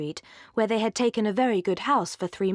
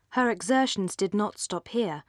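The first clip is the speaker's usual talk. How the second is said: plain reading voice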